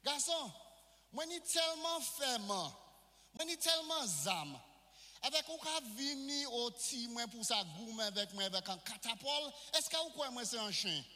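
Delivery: a hint of a scornful warrior; preacher voices Goliath taunting little David, mildly scornful; taunting giant. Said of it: "Goliath dit David".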